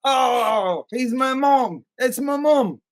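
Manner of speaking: high-pitched, hammed-up Australian voice; mock Australian accent. Co-host mocking Mia over her possessed mom, Australian accent. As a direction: wail it high in a shaky attempt at Australian. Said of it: "I can't keep an Australian accent".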